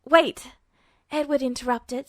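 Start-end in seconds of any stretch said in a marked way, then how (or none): 0.1-0.5 sharp startled cry, louder; a sudden loud startled wait. A narrator's reading. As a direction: jolt out the word in alarm.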